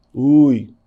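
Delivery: a loud, startled "Ui"; exclaimed interjection. Shown as a demonstration. Teacher acting out an interjection, loud and startled. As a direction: yelp it as if something stung you. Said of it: "Por exemplo".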